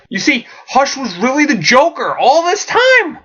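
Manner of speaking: high, laughing through the twist; laughing reveal. Acted. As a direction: giggle while spilling the secret.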